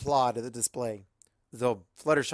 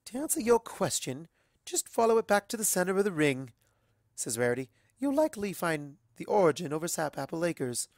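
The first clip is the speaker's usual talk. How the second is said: lightly higher, proper lady pony; refined Rarity; 5 semitones higher than usual. Acted. Rarity giving directions, light refined voice. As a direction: explain graciously.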